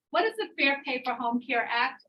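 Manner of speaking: ordinary talk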